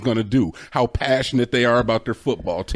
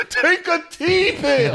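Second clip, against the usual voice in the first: laughing exclamation; much slower than usual. Pretend. Laughing joke about T pills.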